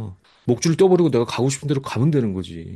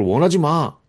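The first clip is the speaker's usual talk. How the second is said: raised, louder mock protest; imitating a demanding child; 4 semitones higher, 5 dB louder, slower than usual. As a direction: push it out like a petulant order.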